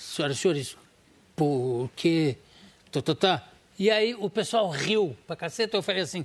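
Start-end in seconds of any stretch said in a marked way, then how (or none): 0.0-3.5 low, stuttering over repeated syllables, voice dropped. Retelling his stage number before an audience, a stammering impression.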